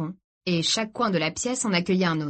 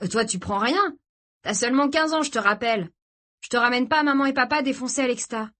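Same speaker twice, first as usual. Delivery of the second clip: lightly voiced, higher-pitched scolding; brother admonishing his sister; 5 semitones higher than usual. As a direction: tell off a younger sister. (grand frère qui sermonne légèrement)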